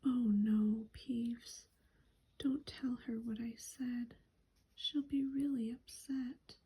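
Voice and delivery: hurried, anxious whisper; frantic whisper. Acted. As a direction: plead urgently under your breath. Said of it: "Hermione whispered frantically".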